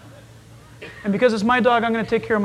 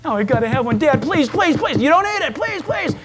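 put-on begging child; 3 semitones higher than usual. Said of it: "You parents, you know exactly".

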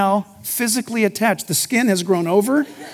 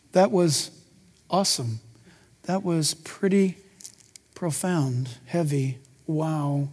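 lower, much softer awestruck hush; hushed awe; 6 semitones lower, 7 dB quieter than usual. Retold or imitated. Pastor imitating a listener hearing God's voice, hushed awe. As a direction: breathe it out in wonder.

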